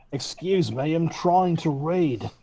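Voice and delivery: giggling, slow prissy complaint; laughing mock indignation. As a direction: huff through laughter.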